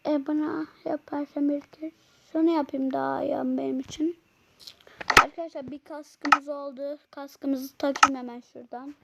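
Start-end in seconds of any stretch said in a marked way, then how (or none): 0.1-4.2 whispered aside to himself. Real, not acted. Gamer whispering a plan to himself while building, whisper. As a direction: drop to a breathy whisper mid-game.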